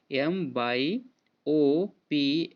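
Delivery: each letter drawn out very slowly; dictating letters to a class, very slow; slow letter-by-letter spelling. Shown as a demonstration. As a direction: spell it out deliberately, one letter at a time. Spelling the correct word aloud.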